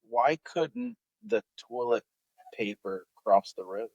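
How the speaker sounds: "toilet" slurred into TWILL-it; toilet said as twillet. Real, not acted. Comic asks his joke's opening, toilet said as twillet. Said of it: "you went like twillet".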